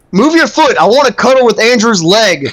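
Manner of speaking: imitated demand. Retelling Chris pushing the girlfriend's foot away, mock pushy. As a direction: play a clingy friend wanting to cuddle. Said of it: "He goes".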